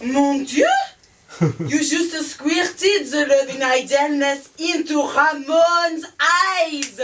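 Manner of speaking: shocked. Acted. Shocked French exclamation.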